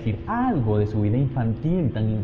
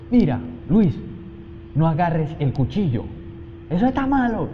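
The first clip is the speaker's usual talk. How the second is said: put-on yelling at a child; 6 semitones higher than usual. Shown as a demonstration. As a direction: snap at the kid to drop the knife. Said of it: "Y le grito".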